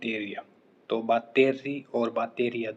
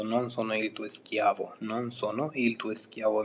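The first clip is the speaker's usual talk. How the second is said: slow model sentence; much slower than usual. Shown as a demonstration. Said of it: "किसी को बोलना होता है कि".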